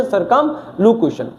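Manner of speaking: सर्कमलोक्यूशन said slowly, every syllable clear; careful pronunciation. Shown as a demonstration. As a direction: spell out सर्कमलोक्यूशन by sound. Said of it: "तो सर्कमलोक्यूशन".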